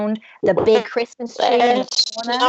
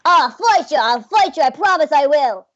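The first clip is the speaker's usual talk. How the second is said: high, eager little elf voice; a tiny elf trying to sound brave; plucky elf threat; 4 semitones higher, 4 dB louder than usual. Acted. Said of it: "he's going".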